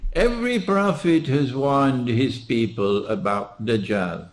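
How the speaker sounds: each word said separately; staccato. Shown as a demonstration. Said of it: "I pronounce each word separately".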